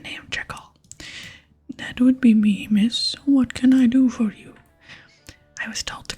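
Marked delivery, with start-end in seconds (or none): 1.8-4.5 loud, forceful half-whisper; barbarian strongman. Pretend. Jekyll greets a visiting stranger, barbarian half-whisper. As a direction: project a proud barbarian through a stage whisper.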